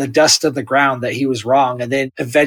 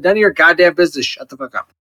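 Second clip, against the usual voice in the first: dismissive God; faster than usual. Acted. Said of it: "And he said".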